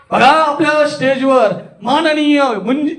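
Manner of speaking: slow, high stage announcement full of amazement; exaggerated wonder. Shown as a demonstration. Speaker announces a guest on stage, amazed. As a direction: hype the guest as a marvel. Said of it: "अद्भुत केलं त्यांना".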